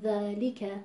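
ذالک with a complete li after natural long ā; ذالک evenly measured, nothing snatched; full natural weight. Shown as a demonstration. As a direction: sound dhā, li and ka each fully in ذالک. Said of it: "هم حرف لام با کسرش".

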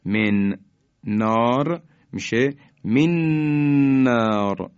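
مِن نار said with the nun merged into the doubled ر; مَنّار, the two words run together on a doubled r; merged man naar. Shown as a demonstration. Quran teacher showing students the merged reading of من نار.

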